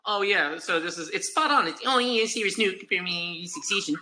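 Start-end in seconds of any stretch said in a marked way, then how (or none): 1.9-4.0 put-on Australian accent. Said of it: "What's your Australian version of my accent".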